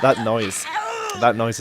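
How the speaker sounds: laughing, loud. Real, not acted. Laughs at game noise.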